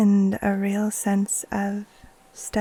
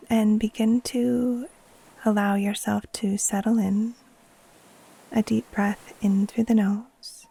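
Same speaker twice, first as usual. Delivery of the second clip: guided meditation. Acted. Teacher guiding listeners to settle in and breathe, calm meditation voice. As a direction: ease them gently into rest, leaving space between phrases.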